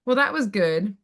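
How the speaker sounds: plain compliment with a slight lift; sincere praise. Shown as a demonstration. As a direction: say it as straightforward approval. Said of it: "did they say it like".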